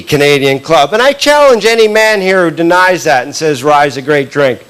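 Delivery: ordinary talk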